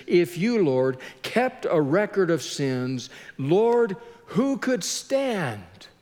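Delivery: slow, drawn-out appeal to God; acted slow, helpless question; pondering from the depths. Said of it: "pondering the fact that he's in the depths".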